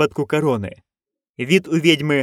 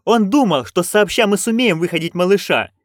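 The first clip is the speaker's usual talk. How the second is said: excited; 6 semitones higher than usual. Acted. Magrat pleading, continues exclaiming.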